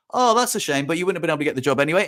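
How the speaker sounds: airy opener, then a quick dismissal; casual retold brush-off. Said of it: "just brushed it off".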